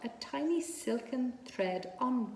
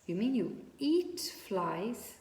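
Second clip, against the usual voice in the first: shocked gasp; slower than usual. Acted. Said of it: "gasped Wilbur".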